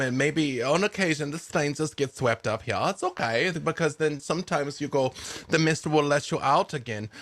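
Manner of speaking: a hint of a kindly old woman warning strangers; old woman of the woods giving a gentle warning; old woman NPC. GM holds NPC voice.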